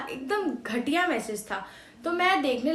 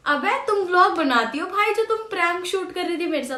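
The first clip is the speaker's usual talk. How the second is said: louder, higher, fed up with the prank; exasperated rant; 4 semitones higher, 5 dB louder than usual. Real, not acted. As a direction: scold her in open disbelief. Annoyed at mother's prank message. (झुंझलाकर ऊँची आवाज़ में डाँटना)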